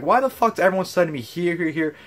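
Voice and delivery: high, irritated retelling; annoyed fan being bounced between box offices; pissed-off rant. Retold or imitated. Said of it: "I'm like".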